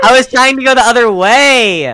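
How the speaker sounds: protesting shout. Real, not acted. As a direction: shout your excuse back. Protesting the accusation.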